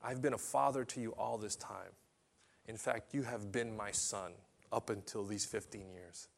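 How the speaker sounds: calm and tender, like a father promising; gentle voice of God. Acted.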